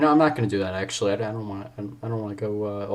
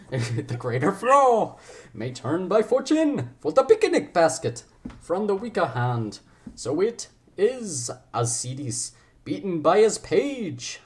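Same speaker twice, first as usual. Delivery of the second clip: high, slow cartoon bear voice; hammed-up cartoon bear reciting Shakespeare; Yogi Bear; 7 semitones higher, slower than usual. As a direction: do a swooping, goofy cartoon bear. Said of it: "okay, now I'm Yogi Bear".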